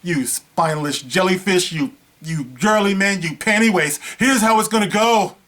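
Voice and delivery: booming overlord voice, rising to a roar; megalomaniac rant. Pretend. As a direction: lord it over them like a tyrant. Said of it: "I would be like".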